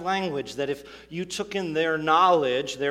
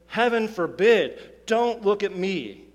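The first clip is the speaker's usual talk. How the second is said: emphatic refusal; 5 semitones higher, 5 dB louder, slower than usual. Retold or imitated. Paul rejecting being the standard.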